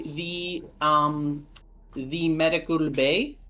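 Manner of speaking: put-on butler accent drifting toward Indian; lightly voiced butler slipping into an Indian accent; a GM whose butler accent turns Indian; accidental Indian accent. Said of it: "I've fallen into Indian somehow".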